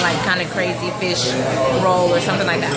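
talking with a mouth full of sushi; words round a bite of food. Real, not acted. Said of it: "Excuse me for talking with my mouth full".

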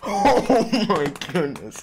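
laughing, stretched-out amazement; amazed laugh. Real, not acted. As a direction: laugh into a slow, drawn-out exclamation. Laughing in amazement at first beat.

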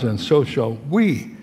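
slow lead-up to a drawn-out "we"; slow down and land firmly on "we"; stress on WE. Shown as a demonstration. Preacher reading the verse to quiz listeners, closing WE emphasized. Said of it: "I'm going to emphasize a word".

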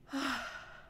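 audible releasing sigh; breath demonstration. Shown as a demonstration. Guide showing listeners how to breathe, releasing sigh. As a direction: let out a high, falling sigh. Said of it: "Like that".

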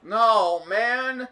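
high, loud groan of frustration; frustrated cry. Real, not acted. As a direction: wail it out at the glitch. Game loops back yet again.

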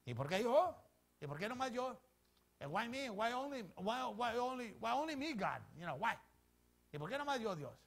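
acted-out "poor me" complaint; complaining. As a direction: plead the unfairness, pushing each question upward. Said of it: "we have a lot of complaints y quejas".

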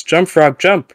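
loud, high command shout; yelling at the frog. Retold or imitated. Scientist yelling at frog to jump. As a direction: bark the order at the frog. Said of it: "He yells".

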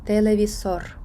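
Телевізор stressed on its final syllable; Spanish televisor, weight on the end of Телевізор; last-syllable stress. Shown as a demonstration. Teacher giving an example of the rule, Телевізор stressed last. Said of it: "наголос падає на останній склад".

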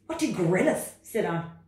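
high, loud, protesting frog voice; reluctant frog. Acted. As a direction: whine back like a stubborn little frog. Frog character.

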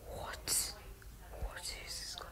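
baffled breathless whisper. Real, not acted. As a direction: whisper it in disbelief. Baffled by a strange player.

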